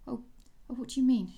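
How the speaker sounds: a startled little flutter. Acted. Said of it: "she fluttered".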